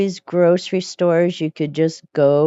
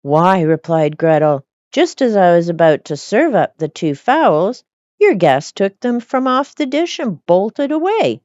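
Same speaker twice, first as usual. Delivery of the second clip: lively storybook reading voice; animated fairy tale reading; story narration. A narrator's reading. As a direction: read it like a bedtime fairy tale. Reads Grimm tale aloud.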